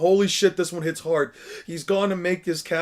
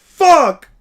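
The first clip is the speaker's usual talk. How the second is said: loud cry-laugh, far higher, shouting; laughing through tears; 12 semitones higher, 14 dB louder than usual. Real, not acted. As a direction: break down laughing and crying at once. Overwhelmed by emotional anime scene.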